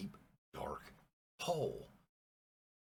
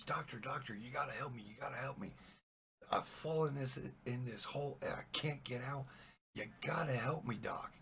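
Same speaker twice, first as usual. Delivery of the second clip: higher-pitched, urgent begging; acted pleading; 6 semitones higher than usual. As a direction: beg a passerby for rescue. Trapped man begs a passing doctor.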